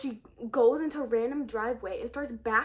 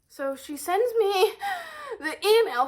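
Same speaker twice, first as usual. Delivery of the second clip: higher, louder, laughing through words; laughing disbelief; 8 semitones higher, 6 dB louder than usual. Real, not acted. About mom's email, laughing in disbelief.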